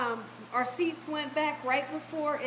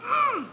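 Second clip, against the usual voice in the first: imitated cross grunt; 10 semitones higher than usual. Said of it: "looked at me like this".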